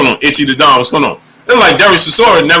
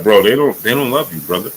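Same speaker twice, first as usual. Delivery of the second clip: low, softer confiding; mock whisper; 6 semitones lower, 5 dB quieter than usual. Streamer pretending to whisper in Chisora's ear, low and soft. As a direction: lean in and confide. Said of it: "I be wanting to whisper in Chisora's ear".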